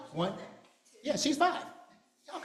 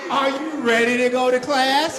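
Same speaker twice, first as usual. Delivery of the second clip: louder rallying call, rising at the end; hype shout; 4 dB louder than usual. Acted. Children's leader shouting to get the kids ready for class.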